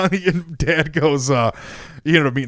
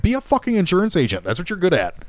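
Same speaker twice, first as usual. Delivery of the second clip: higher-pitched, exasperated retold plea; exasperated advice; 5 semitones higher than usual. Son talks dad out of contracting, exasperated. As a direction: talk sense into him, pitch jumping up.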